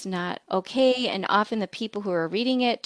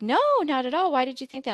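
surprised coworker; 5 semitones higher, faster than usual. Retold or imitated. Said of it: "And sometimes it was like".

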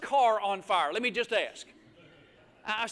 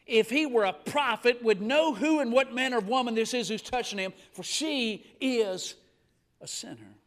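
scornful Pharisee; 2 semitones lower than usual. Retold or imitated. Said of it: "he said to himself".

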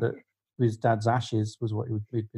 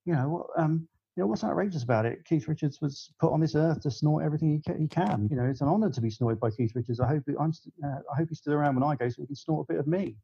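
exasperated retort; 3 semitones higher than usual. Retold or imitated. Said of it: "reach breaking point at the end of my tether".

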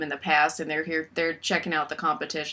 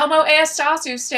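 mock hick Spanish; 7 semitones higher, 7 dB louder than usual. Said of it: "It's like he's saying".

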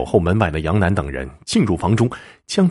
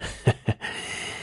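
soft acted chuckle; laugh; 10 dB quieter than usual. A narrator's reading. Henchman blocking the husband at the door, soft mocking chuckle. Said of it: "笑着说".

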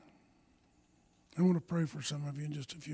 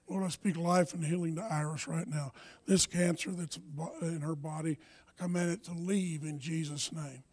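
earnest healing prayer. Real, not acted. Healing prayer over Iris.

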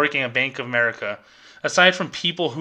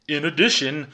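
stiff corporate phrasing. Retold or imitated. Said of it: "who the freak talks like that?".

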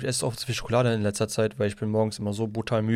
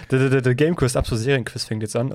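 jingle intro; 4 dB louder than usual. Acted. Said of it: "das ist der Einspieler".

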